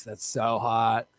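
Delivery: slow, low mock sultry purr. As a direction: drag it out seductively.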